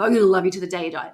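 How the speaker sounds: fast, mildly menacing mock vow; lightly acted psycho intensity; a bit psycho. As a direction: rush it out like an obsessive lover. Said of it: "you know, a bit psycho".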